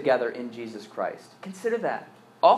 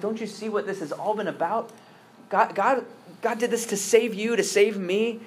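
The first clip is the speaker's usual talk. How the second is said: higher, pleading brother's voice, lightly voiced; pleading Joseph; 5 semitones higher than usual. Joseph pleading with his guilty brothers, higher and earnest. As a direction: urge them not to blame themselves, raised and pleading. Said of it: "And then he says".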